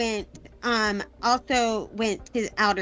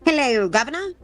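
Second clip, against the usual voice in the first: mock posh British greeting; playful fake British accent; 3 semitones higher than usual. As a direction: put on a fancy British accent. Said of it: "I came in with a special accent".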